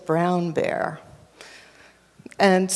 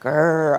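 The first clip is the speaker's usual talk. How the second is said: growl; 4 semitones lower than usual. Shown as a demonstration. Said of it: "Can you go grrr?".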